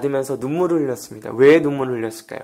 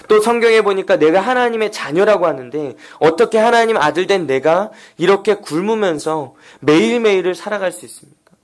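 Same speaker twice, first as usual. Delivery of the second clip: anguished questioning; 4 semitones higher than usual. Retold or imitated. Hungry student questions God in prayer, anguished plea. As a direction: plead for an explanation, re-enacting past prayers. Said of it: "하나님 앞에 매일같이 물었습니다".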